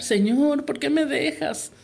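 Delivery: súplica recreada, aguda y alargada, sin volumen; grito suplicante recreado. Retold or imitated. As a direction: imita un grito de súplica, arrastrando las palabras. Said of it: "le empecé a gritar". (grito contenido de súplica)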